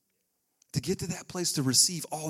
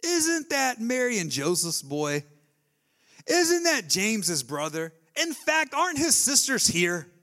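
offended townspeople; 4 semitones higher, 4 dB louder, slower than usual. Retold or imitated. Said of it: "they took offense".

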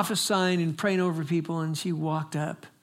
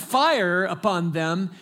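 slow, louder drawn-out cry of fire; fiery preacher call; 3 semitones higher, 5 dB louder, much slower than usual. Retold or imitated. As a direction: stretch fire out like a revival call. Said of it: "as soon as he said".

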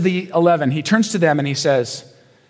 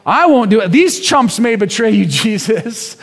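cocky Peter; 4 semitones higher than usual. Retold or imitated.

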